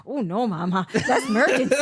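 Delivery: lightly voiced little kid; a hint of a small child's voice. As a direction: imitate a toddler declining to help, amused. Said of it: "He's like".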